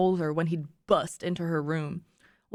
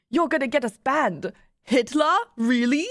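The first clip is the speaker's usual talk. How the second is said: put-on incredulous, louder, imperfect German accent; attempted German accent; 4 semitones higher, 3 dB louder than usual. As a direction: object in a badly faked German accent. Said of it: "I can't do a German accent".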